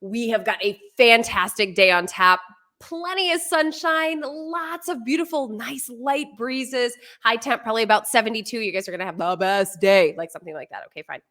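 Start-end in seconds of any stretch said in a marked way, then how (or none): 0.0-10.1 bright, slowed weathercaster read; sunny weather report. Shown as a demonstration. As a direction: sell a beautiful day on TV. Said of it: "it would sound something like this".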